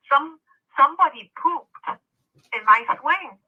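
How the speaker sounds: put-on little boy voice. Retelling the sobbing boy at the park, childlike voice. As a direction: speak it like a small upset kid.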